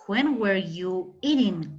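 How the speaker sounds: very slow, carefully spaced English question; slow classroom English demo; slow model sentence. Shown as a demonstration. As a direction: lay out each word for the class. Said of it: "qué podríamos decir".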